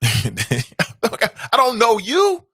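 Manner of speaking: hammed-up dismissal; mock brush-off. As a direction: stretch it out dismissively. Mock ignoring a maskless greeter.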